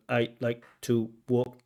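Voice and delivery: slow, even beats on "I like to walk alone and pass my time"; teacher mimics the candidate's even rhythm; mechanical, syllable by syllable. Shown as a demonstration. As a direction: imitate a flat syllable-timed reading. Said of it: "pronunciation is mechanical".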